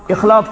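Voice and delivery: اخلاق said as "ikhlaq", starting on i; wrong form of اخلاق, opening on "ikh"; mispronunciation demo. Shown as a demonstration. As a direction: say اخلاق with first vowel i. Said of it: "چھُنہٕ صحیح تلفظ کینٛہہ".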